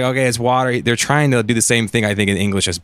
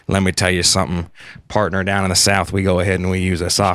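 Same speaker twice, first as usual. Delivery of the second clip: put-on southern hick accent; 3 semitones lower, faster than usual. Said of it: "a southern accent, like a hick accent".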